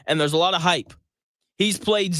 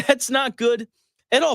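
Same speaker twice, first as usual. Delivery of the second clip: laughing repeat; 6 semitones higher than usual. Real, not acted.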